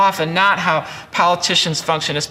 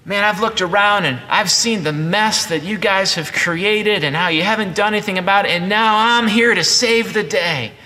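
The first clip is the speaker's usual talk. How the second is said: mock know-it-all; 2 semitones higher than usual. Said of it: "Notice he doesn't say".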